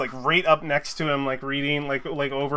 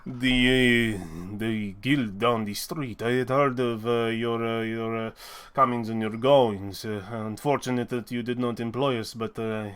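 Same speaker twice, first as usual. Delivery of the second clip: lower, halting, measured voice; reserved forge master; 5 semitones lower than usual. Acted. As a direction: speak low and haltingly, with long hesitations. Game master voices the smith.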